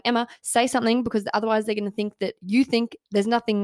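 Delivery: mildly panicked self-talk; retold panic. Candidate scolding herself mid-interview, mildly panicked. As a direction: urge yourself on, a touch flustered. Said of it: "I'm panicking, going".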